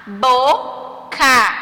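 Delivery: BOCA split into two separate syllables. Shown as a demonstration. Teacher reading words for pupils, syllable by syllable. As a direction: say "Boca" slowly, with a gap between syllables. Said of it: "O que você percebeu ao pronunciá-las".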